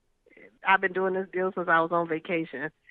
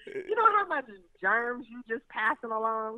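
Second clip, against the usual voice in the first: disgusted. Real, not acted. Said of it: "That is disgusting".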